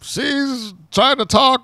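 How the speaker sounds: retold announcer shushing the crowd; mock stern commentator. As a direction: quote the commentator's hushing of the crowd. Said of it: "reinforces to the crowd".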